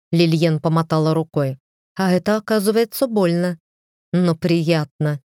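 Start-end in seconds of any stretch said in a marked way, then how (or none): 1.9-5.2 satisfied verdict. Acted. Wife savours having slapped her husband, smug. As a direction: relish it after the sting. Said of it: "вынесла вердикт она".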